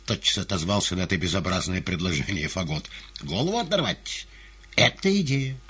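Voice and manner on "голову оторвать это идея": high-pitched pleased exclamation; delighted. A narrator's reading. Fagot taking up the gallery's idea, delighted.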